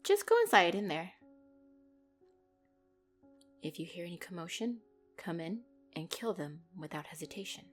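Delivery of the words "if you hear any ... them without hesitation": hushed, soft-spoken kill order; cold order. Acted. Boss instructing her guard at the door, coldly and quietly. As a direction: give the deadly instruction quietly.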